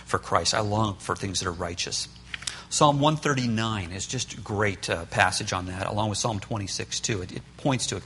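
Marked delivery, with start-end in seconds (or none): 0.1-2.1 heart's longing. Retold or imitated. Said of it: "want their inside to say".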